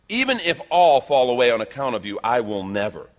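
loud, insistent pledge; emphatic vow. Acted. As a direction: swear loyalty forcefully, settling at the end. Peter's emphatic vow to Jesus.

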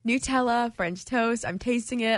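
talking around chewing gum. Real, not acted. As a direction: gum in the mouth while speaking. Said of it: "I have gum in my mouth".

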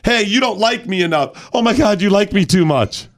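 high, whiny mocking voice; whiny mock complaint.

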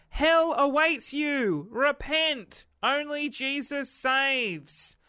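hammed-up fire and brimstone; ominous preacher. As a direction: read it like a hellfire warning. Reads warning ominously.

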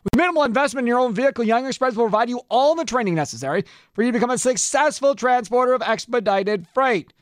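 upbeat host-read commercial; radio ad read. Acted. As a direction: sell it like a radio spot.

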